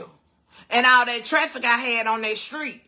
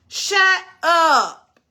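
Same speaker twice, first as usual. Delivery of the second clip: loud, high shocked Shut up; stunned disbelief; 4 semitones higher, 5 dB louder than usual. Real, not acted. Neighbor admits to a group chat, loud shocked disbelief. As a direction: blurt it out in shock.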